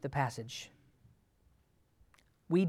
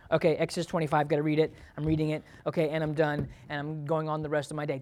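rushing through; faster than usual. Retold or imitated. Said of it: "If you just fly across the paper".

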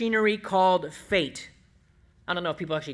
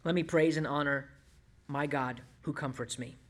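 a softer, hushed prayer to God; quiet prayer; 4 semitones lower, 6 dB quieter than usual. Real, not acted. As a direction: pray it gently, almost to yourself. Personal prayer after scripture.

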